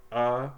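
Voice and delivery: "uh" as a lazy short U; schwa. Shown as a demonstration. Teacher showing students a schwa, lazy short U. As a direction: say "uh" loosely, like the u in "up". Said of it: "a lazy short U sound".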